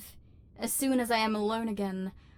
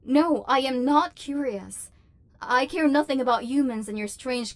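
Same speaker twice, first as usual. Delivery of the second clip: 1 defensive denial; 2 semitones higher, 4 dB louder than usual. Acted. Denies curiosity too fast.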